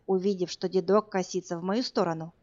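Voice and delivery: usual speaking voice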